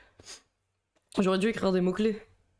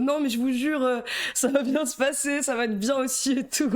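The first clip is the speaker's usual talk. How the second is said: higher-pitched nervous reassurance; panicked reassurance; 5 semitones higher than usual. Retold or imitated. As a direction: imitate yourself flustered, insisting it's fine. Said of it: "Je suis en mode". (imitation de soi paniqué, voix plus aiguë)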